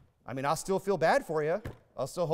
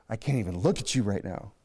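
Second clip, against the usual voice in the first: lower, mock-weary wife line; fed-up wife; 6 semitones lower than usual. Preacher mimics a wife scolding her husband, low and mildly weary. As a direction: imitate an exasperated wife, lightly. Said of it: "Some of us husbands have probably heard that one".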